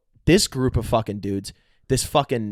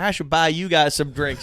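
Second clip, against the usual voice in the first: Southern guy; 4 semitones higher than usual. Retold or imitated. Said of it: "these Southern guys".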